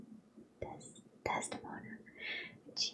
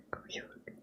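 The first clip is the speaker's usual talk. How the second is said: whispered cartoon chuckle attempt; Goofy. Shown as a demonstration. Reader retrying Goofy's sound, whispered impression. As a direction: try the cartoon dog's catchphrase in a whisper. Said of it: "It's hard to do when whispering".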